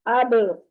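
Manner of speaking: अब with a bouncing release on b; echoing b. Shown as a demonstration. Teacher demonstrating qalqalah, echoed final b. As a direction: let the b in अब spring back. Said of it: "आवाज पलट कर आएगी".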